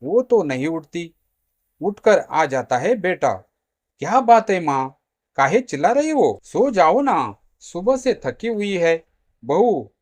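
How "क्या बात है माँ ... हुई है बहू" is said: higher, louder protest; annoyed son. Acted. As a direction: complain like someone just roused by shouting. Woken son scolds his shouting mother.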